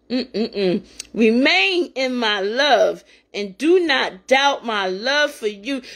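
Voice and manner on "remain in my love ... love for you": slow, measured Bible reading; scripture reading. Acted. A preacher reading Scripture to her listeners, slow and reverent. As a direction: read the verses with reverent weight.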